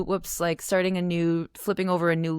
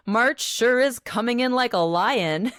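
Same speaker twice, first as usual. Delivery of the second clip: mock-haughty, pitched up; 5 semitones higher, 4 dB louder than usual. Woman remarking to herself on weird weather, mock-haughty. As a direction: put on a little haughty voice for fun. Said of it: "haughty voice".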